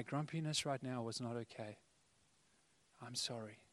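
tender apology. Retold or imitated. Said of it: "look in the eyes and say".

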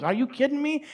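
high-pitched mock disbelief; incredulous retort. Man answering pastor about his past cussing, incredulous. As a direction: answer as if the question is absurd, pitch jumping up. Retold reply to pastor's question.

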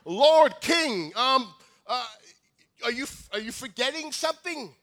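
high, loud, panicked calling out to the king; panicked yell. Acted. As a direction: shout up at the throne in rising panic. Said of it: "And he yells".

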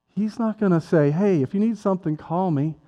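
usual speaking voice

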